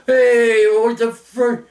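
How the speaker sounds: high, loud indignant call; acted-out cry of outrage; retold indignant yell. Calling after departing bus.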